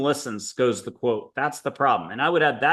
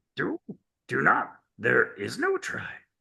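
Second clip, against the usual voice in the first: put-on creature voice, quieter; 4 dB quieter than usual. Leading a breathing exercise, the speaker does a Yoda voice to make listeners laugh. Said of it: "I'll do Yoda's voice and make you laugh".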